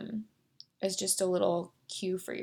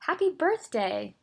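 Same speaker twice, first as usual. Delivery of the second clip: excited greeting; 5 semitones higher, 3 dB louder than usual. Shown as a demonstration. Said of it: "put a little more excitement behind it".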